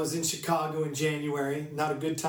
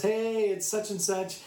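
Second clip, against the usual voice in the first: higher, bright retold hello; upbeat greeting; 5 semitones higher than usual. Preacher voicing a man's Instagram text, upbeat. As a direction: imitate an eager greeting.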